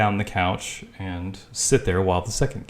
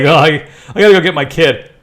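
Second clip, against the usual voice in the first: mocking Geraldo; 7 semitones higher, 12 dB louder, faster than usual. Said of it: "He's like".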